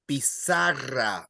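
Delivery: slow, low "Pizarra" with a long "za"; stress on ZA. Shown as a demonstration. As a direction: lean on "za" in "Pizarra". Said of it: "you stress the second last syllable".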